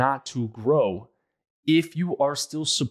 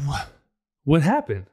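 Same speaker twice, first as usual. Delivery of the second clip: higher, louder baffled question; confused man; 4 semitones higher, 4 dB louder than usual. Retold or imitated. Man left behind asking what happened, higher and louder. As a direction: sound blindsided and lost. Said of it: "they're like".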